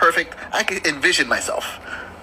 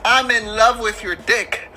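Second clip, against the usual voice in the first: slow, drawn-out mock tearful declaration; imitating near tears; 4 semitones higher, slower than usual. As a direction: draw it out as if almost crying. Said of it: "She almost crying".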